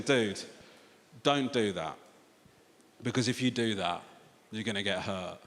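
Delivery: low, quiet, measured warning; low-key warning. Retold or imitated. Dad warns his son not to get hurt, low and quiet. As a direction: reason with him quietly, low-pitched.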